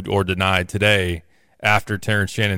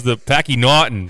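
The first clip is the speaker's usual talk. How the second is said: put-on Boston accent. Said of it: "he goes".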